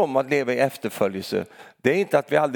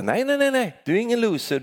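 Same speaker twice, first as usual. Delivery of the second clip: emphatic rebuttal; 10 semitones higher than usual. Acted. Preacher rebuts imagined doubt.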